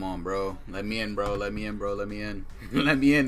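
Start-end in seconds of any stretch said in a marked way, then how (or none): 2.7-3.3 higher, loud plea bursting out of a laugh; laughing shout. Real, not acted. Streamer begging to get into the game, laughing shout.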